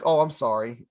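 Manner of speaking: imitating a low, insincere sorry; fake-sorry, retold with a sarcastic edge; sarcastic apology. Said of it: "like, sarcastically".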